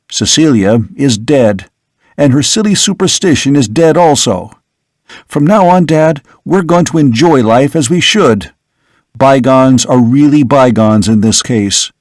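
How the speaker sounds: a hint of a dismissive son; young son's voice. Son to father, waving off the aunt's madness, lightly brisk.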